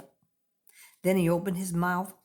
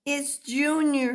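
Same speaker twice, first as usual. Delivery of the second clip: slow, high, louder cry of joy; proud father bird calling out; Mister Bird bursting with pride; excited shout; 8 semitones higher, 5 dB louder than usual. Acted. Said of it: "he shouted".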